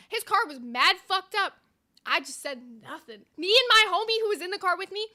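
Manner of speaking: ordinary talk, nothing marked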